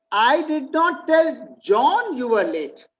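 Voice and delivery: "John" set apart, said slowly; single out "John" as the one not told; stress on JOHN. Shown as a demonstration. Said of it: "Maybe I told Sharon and Jose".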